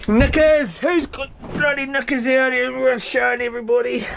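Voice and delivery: sudden high yelp of surprise; high, startled outburst; surprised exclamation. Real, not acted. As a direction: blurt it out, caught off guard. Surprised at knickers in gear.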